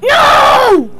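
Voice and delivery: big high drawn-out scream of dismay; real gamer outburst; anguished shout. Real, not acted. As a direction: wail it at full voice, falling at the end. Something goes wrong in game.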